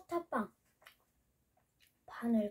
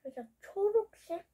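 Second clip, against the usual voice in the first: speaking between bites; talking while chewing. Real, not acted. Seen 0: Ate the filled treat just before; lips move, pursed while talking.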